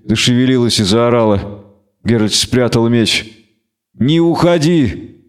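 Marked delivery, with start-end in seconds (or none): 4.0-5.2 slow, higher, pained moan; moaning plea. Acted. Dying Renfri moans to Geralt, slow pained plea. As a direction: beg him weakly to stay. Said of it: "простонала она".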